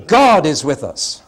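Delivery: loud, slow, God punched; "God" in "God is with us" hammered for the vote; stress on God. Shown as a demonstration. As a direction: hit "God" hard. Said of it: "Let's take a quick vote".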